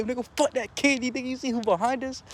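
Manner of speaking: high, urgent shout; panicked yell. Retold or imitated. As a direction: yell it while running away. Dante yelling while fleeing.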